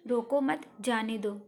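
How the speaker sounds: "रोको मत" grouped, then "जाने दो"; "रोको मत" as one phrase, "जाने दो" after it; pause after मत. Shown as a demonstration. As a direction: lift "मत", break, then let "जाने दो" drop. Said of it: "तीसरे वाक्य में विराम चिन्ह का अलग स्थान".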